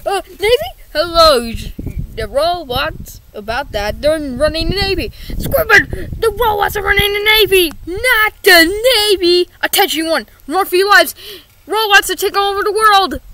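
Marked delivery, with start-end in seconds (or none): 5.3-13.2 panicked yelling. Acted. Panics, warns everyone of robots.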